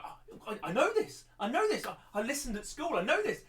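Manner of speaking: high and loud, bursting to answer; eager know-it-all. Retold or imitated. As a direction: blurt it out like a kid desperate to be picked. Teacher acts his eager younger self.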